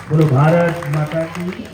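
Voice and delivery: slow, drawn-out slogan called to the crowd; rallying call. Real, not acted. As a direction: lead the audience into the chant. Leading the crowd's chant. (શ્રોતાઓને નારો બોલાવતો ધીમો ખેંચેલો અવાજ)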